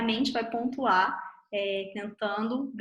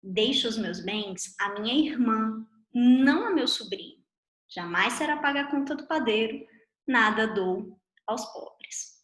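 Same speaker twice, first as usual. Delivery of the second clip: "Deixo os meus bens à minha irmã," flows straight into "não a meu sobrinho"; no break between "irmã" and "não", with stress on "não a meu sobrinho"; sister's punctuation. Shown as a demonstration. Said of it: "A irmã chegou em seguida e pontuou assim".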